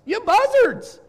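high, loud shouted insult; yelled insult. Retold or imitated. Martin Luther scolding his church, loud yelled insult. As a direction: yell it at the congregation. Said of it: "he called them buzzards".

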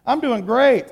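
fake cheerful. Preacher lying to the pastor on the phone, mock cheerful. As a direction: cover it up with a bright fake okay. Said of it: "I totally lied".

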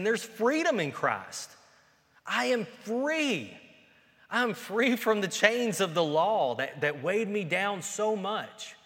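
high, loud, slow cry of freedom; joyful proclamation. Retold or imitated. Preacher voicing Paul exulting in his freedom, high and loud. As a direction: shout out the release from the chains.

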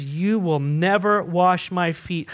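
slow refusal with weight on "never"; deliberate, insistent "never"; emphatic refusal. Retold or imitated. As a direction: stretch out "never", allowing no argument. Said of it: "in typical Peter fashion".

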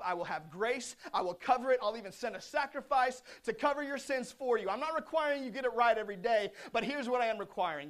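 building rhythmic sermon repetition; impassioned preaching. Acted. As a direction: preach it as God's urgent appeal.

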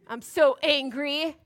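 slow, mildly hammed-up sulk; mock angry. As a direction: pout like an angry little kid. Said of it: "just so angry and just like".

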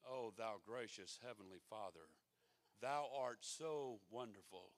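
pompous thee-and-thou praying; mocking stuffy King James prayer; mock formal prayer. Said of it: "talk to God like you live in London".

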